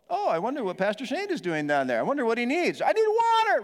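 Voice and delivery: high, slow-witted mocking voice; dopey youth group kid. Mocking the slow youth group, high and dopey. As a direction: play the clueless teen, dim and slow. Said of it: "Ours was a little slow".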